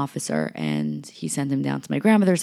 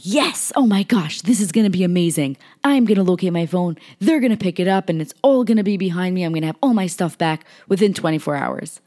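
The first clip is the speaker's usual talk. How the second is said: higher and much louder, gushing with joy; retold excitement; 4 semitones higher, 7 dB louder than usual. To herself after finding the phone, giddy and loud with excitement. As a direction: bubble over like the problem's already solved. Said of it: "I'm all excited".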